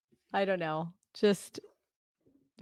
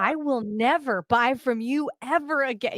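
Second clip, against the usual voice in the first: vowing in anger; 5 semitones higher than usual. Retold or imitated. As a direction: swear off the store for good, heated. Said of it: "I was like".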